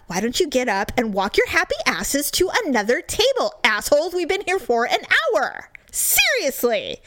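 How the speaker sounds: exasperated, rising in pitch toward the end; imagined telling-off. Retold or imitated. Woman imagining telling rude winery patrons off, exasperated. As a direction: tell them off in mock outrage.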